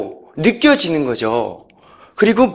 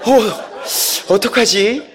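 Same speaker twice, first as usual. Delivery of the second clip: mock nervous; 3 semitones higher, much slower than usual. His turn is approaching, acted nervousness.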